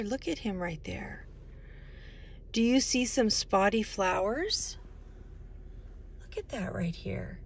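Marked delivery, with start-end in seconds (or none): 0.0-1.3 soft whisper to the little ones; hushed pointing-out whisper. Real, not acted. Pointing out leopard to kids. 6.2-7.4 soft whisper to the little ones; hushed pointing-out whisper. Real, not acted. Pointing out flowers to kids.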